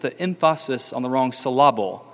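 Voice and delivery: EMPHASIS and SYLLABLE stressed on their second syllables; misplaced stress. Shown as a demonstration. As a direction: say emphasis as em-FASS-is and syllable as sil-LAB-le. Joke: stress on wrong syllables.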